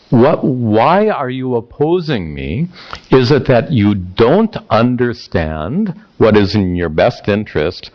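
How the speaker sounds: mildly sarcastic challenge, pitch jumping on the questions; a touch of frustrated teenager; sarcastic frustration. Acted. Duryodhana asking why he is opposed, mildly sarcastic. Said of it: "dripping with sarcasm and, and anger and frustration".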